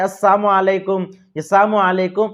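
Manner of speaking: "السلام علیکم" said as "assamu alaikum", the l sound dropped; "السلام علیکم" run together with sounds swallowed; a careless wrong "السلام علیکم"; sloppy salam. Shown as a demonstration. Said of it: "بیہودہ الفاظ سے سلام کرتا".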